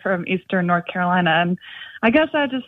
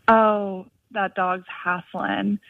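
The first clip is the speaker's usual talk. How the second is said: slow lazy Southern drawl, lightly done; Southern accent; much slower than usual. Retold or imitated. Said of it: "in her Southern accent".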